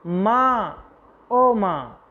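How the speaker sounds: a light pained moan calling for mother; groaning in pain. Acted. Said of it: "ज़ोर से कराकर कहता है".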